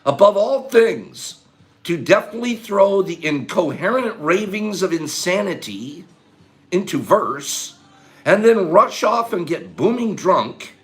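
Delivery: slow, weighty reading aloud; slow dramatic reading. Acted. Reading a Twain quote to the chat, slow and weighty. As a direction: read it out like a solemn poem.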